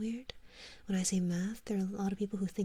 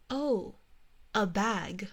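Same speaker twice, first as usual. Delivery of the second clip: mock dawning realization; 5 dB louder, much slower than usual. Americans finally understanding her word bag, mock surprised. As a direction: imitate someone suddenly getting it. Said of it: "they're like".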